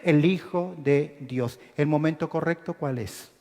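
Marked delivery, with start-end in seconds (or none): 0.0-1.6 eager reply. Retold or imitated. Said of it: "Casi como un resorte".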